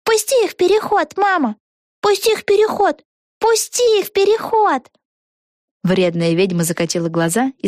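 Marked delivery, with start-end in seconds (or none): 0.0-4.9 put-on high, insistent child's pleading; a small girl begging her mom; pleading little girl. A narrator's reading. Малышка просит. (высокий детский настойчивый голос)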